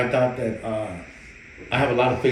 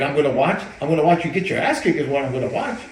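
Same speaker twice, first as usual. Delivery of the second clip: mocking retort; 3 semitones higher, 5 dB louder than usual. Trainer mocking back.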